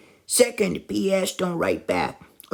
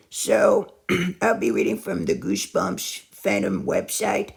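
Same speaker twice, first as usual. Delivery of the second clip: throat keeps catching mid-word; voice cracking. Real, not acted. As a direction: voice catching and breaking up. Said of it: "My voice keeps cracking".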